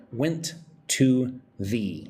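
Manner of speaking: "Went to the" drawn out slowly and joined; slow linking demo. Shown as a demonstration. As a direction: stretch "Went to the" as one slow chunk. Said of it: "Let's put three words together".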